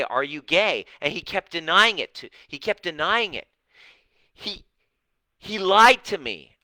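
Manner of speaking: high, loud, indignant mock of the woman; indignant insistence. Workshop woman insisting her husband lied to her, high and loud. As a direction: push it up and out like she's been wronged.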